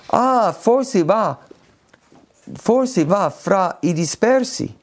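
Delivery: voce lenta e più acuta, come chi tira a indovinare; ipotesi incerta. Retold or imitated. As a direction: imita qualcuno che azzarda una spiegazione, piano e in alto. (ipotesi ironica, lenta e acuta)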